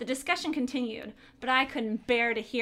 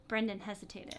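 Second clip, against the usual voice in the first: whispering; 3 semitones lower, 5 dB quieter than usual. Acted. Tense narration whispered.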